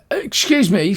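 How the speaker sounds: a living doll snaps at intruders; doll's indignant tone. A narrator's reading. A creepy doll, indignant and sharp. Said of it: "says the doll in a tone".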